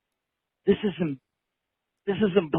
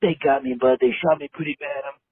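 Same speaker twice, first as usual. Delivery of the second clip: hammy dying soldier farewell; overacted death scene. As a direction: gasp out goodbyes like a dying hero. Caller acts dying on voicemail.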